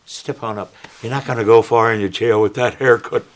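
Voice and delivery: light Irish accent, playing a cop. Shown as a demonstration. Irish cop ordering a prisoner to step up, Irish accent. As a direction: demo an Irish policeman's patter. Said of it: "I played an Irish cop".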